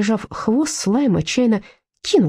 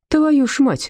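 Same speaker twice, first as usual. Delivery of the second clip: roar; 9 semitones higher, slower than usual. Acted. Paint in his eyes, the shop director roars in pain. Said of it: "взревел Курищев".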